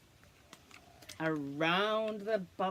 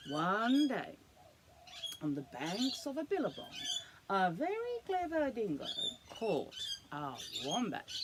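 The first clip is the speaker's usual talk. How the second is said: put-on lively storybook read to a child; animated read-aloud for a little one; reading to children. A narrator's reading. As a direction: tell it like a bedtime picture book. Reads picture book to child.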